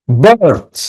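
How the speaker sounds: বার্থ as one drawn-out beat on its own; stressed syllable. Shown as a demonstration. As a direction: lean on বার্থ as the stressed half of birthday. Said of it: "বার্থ বলার সময় কি হাততালি দিবে".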